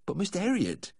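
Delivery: high, about-to-cry plea; tearful protest. A narrator's reading. Owner near tears protesting to the vet, tearful. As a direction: plead in a high voice, lips trembling. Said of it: "his lips began to tremble again".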